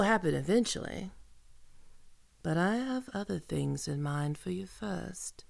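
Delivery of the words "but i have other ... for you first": sinister whisper. Acted. Threatening captive.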